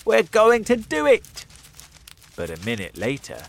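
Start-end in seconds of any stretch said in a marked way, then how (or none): 0.0-1.5 much higher, louder cheer; hopeful burst of joy; triumphant Mister Fox. A narrator's reading. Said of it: "and Mister Fox said".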